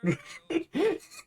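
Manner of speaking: a sudden high burst of laughter. Real, not acted. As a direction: genuine amused laugh. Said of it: "what was the mouth posture".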